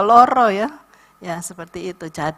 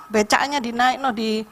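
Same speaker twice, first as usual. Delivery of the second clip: ordinary talk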